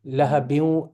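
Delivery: "Lahabin" with the end held longer; lengthened ending. Shown as a demonstration. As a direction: stretch the last syllable of "Lahabin". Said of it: "make it longer".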